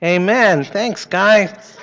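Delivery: put-on gentle, upbeat voice for kids; sweet patient sunday school. Children's prayer time.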